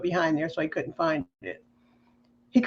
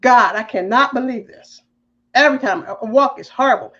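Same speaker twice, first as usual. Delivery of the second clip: mild mock exasperated wail, higher; retold complaining; 4 semitones higher than usual. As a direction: act out complaining to God. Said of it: "the way I was complaining".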